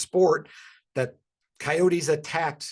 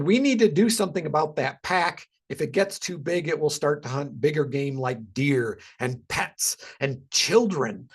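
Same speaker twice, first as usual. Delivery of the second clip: a mildly dramatic, doom-laden reading; 3 dB louder than usual. Retold or imitated. Reading a Facebook quote to listeners, mock dramatic voice. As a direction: read it like an ominous warning, lightly hammed. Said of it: "read that in that dramatic voice".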